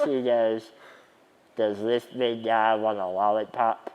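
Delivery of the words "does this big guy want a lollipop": lightly imitated cartoonish voice; a hint of cartoon voice, as if to a child; mock talking down to a little kid; cartoonish baby-talk. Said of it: "in the most cartoonish voice, not his voice".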